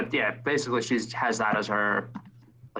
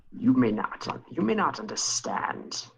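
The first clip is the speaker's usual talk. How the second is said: put-on sly, whispered old schemer; Palpatine-like whisper. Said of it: "he sounds a little like Emperor Palpatine".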